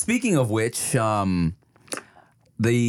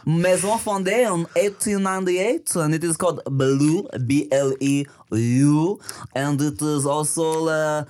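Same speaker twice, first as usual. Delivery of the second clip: put-on French accent. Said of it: "You sound like a French idiot".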